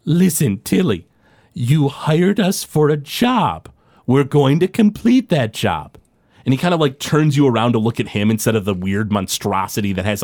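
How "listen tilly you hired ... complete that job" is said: slow menacing professor. Acted. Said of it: "He says".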